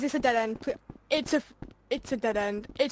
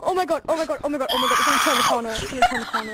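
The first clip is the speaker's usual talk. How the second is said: panicked; 4 dB louder, much faster than usual. Real, not acted. Fleeing monster in game.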